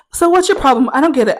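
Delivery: mock exasperated questioning; challenging roommate. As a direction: imitate a roommate demanding an explanation. Imitated confrontational roommate.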